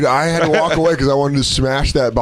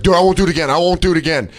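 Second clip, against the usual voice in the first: higher, placating promise; mild cowed pleading; 6 semitones higher, faster than usual. Retold or imitated. Driver facing wet, angry customer, mild cowed pleading. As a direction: imitate someone lightly backing down.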